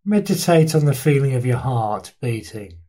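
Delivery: unhurried body-scan guidance with long pauses between instructions; guided meditation. Real, not acted. Teacher leading listeners through a body scan, guided meditation. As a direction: guide listeners through their body, leaving space after each phrase.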